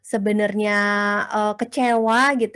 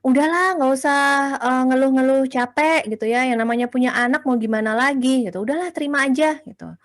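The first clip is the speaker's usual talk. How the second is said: dismissive husband; 4 semitones higher, faster than usual. Retold or imitated. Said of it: "suami kita bilang gini".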